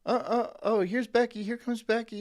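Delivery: lightly voiced office suck-up; fake-friendly coworker. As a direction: play the eager team player. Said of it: "Do you think I'd be like".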